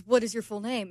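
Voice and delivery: put-on amateur British accent, asking. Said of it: "You have a terrible British accent".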